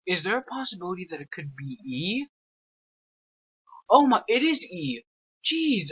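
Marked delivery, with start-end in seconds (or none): 3.9-5.9 relieved exclamation. Real, not acted. Finds the door key.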